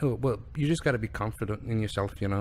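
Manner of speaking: lightly imitated Irish accent. Kid explaining his confidence, imitated Irish accent. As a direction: quote him in an Irish accent. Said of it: "That's a very good accent".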